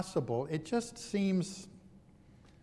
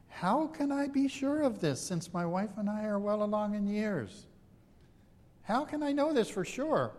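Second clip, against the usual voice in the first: pleading high disbelief; doubting old priest; 5 semitones higher than usual. Acted. Zechariah doubting the angel.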